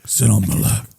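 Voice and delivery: faint, strangled, broken words; mock choked character. Wheelchair character flirting past his Adam's apple, mock choked. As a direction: squeeze it out barely voiced.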